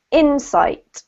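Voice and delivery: insight said as IN-sight; IN-sight, teacher model; stress on first syllable. Shown as a demonstration. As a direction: put the weight on IN in insight. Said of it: "emphasis on the first syllable".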